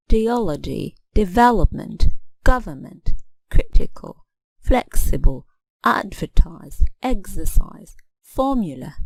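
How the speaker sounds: each word from dependability to theological beaten on its third-last syllable; stress third syllable from end. Shown as a demonstration. Teacher listing examples of the rule, stress on each antepenultimate syllable. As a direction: list the words, accenting the antepenultimate syllable each time. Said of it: "we stress the antepenultimate syllable".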